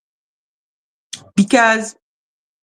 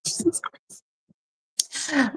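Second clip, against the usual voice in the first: breathy groan; 3 semitones higher, 11 dB quieter, much slower than usual. Real, not acted. Overwhelmed by drama news.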